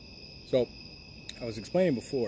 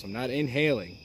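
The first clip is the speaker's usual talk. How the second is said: cigar in mouth. Real, not acted. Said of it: "put the cigar in my mouth".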